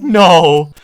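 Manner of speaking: high, slow, emphatic insisting; insistent no. Retold or imitated. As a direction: press hard, stretching out the multiplier. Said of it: "and Ken's like".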